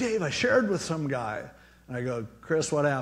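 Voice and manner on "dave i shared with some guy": all-excited, eager, pitched-up burst. Retelling how a brand new Christian came up to him at the back door, imitating someone excited. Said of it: "he's all excited".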